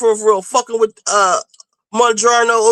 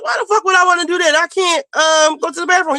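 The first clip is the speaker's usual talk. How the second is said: fast, higher mock indignation; indignant retort; 6 semitones higher, faster than usual. Patient retelling her retort to the doctor, fast and higher. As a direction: fire it back at the doctor fast. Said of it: "I said".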